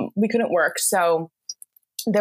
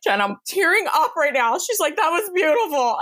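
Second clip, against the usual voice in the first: boss quote; 10 semitones higher than usual. Retold or imitated. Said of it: "And she's like".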